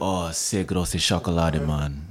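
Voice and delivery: slow mock-German self-talk; playful German. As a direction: draw it out in a put-on German voice. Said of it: "And I do the German side".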